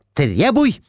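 high, urging wife; Глафира, high. A narrator's reading. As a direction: push him to demand. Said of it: "Набросилась Глафира Семёновна". (высокий настойчивый призыв)

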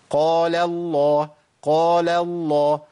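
slow recited قال الله through a smile, heavy الله; smiling correct lams. Shown as a demonstration. Teacher models smiling articulation, correct lam weights. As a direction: stretch قال الله with light قال, thick الله. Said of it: "لا، ابتسم يا أخي".

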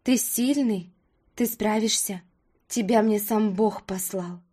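tender. Acted. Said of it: "с любовью".

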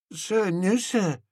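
put-on high small boy voice; barked sir yes sir. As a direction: snap it back like a little cadet. Boy answers again.

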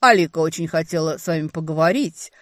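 loud, lightly cooing villain; cooing stranger. A narrator's reading. Stranger on the line about her sister, cooing. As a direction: coo it slyly at her. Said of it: "проворковал незнакомец".

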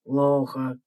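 low scolding dragon. A narrator's reading. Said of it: "Пожурил дракон".

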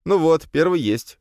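smug little jab; smug smirk. A narrator's reading. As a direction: needle him with a smirk. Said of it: "хмыкнул я".

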